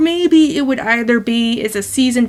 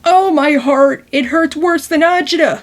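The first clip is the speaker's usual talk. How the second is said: mock Italian-American; 2 semitones higher than usual. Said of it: "I'm not doing this accent on purpose".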